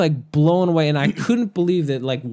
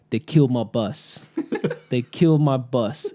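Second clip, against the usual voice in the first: laughing while quoting; 2 semitones lower than usual. Retold or imitated. Driver quoted through laughter.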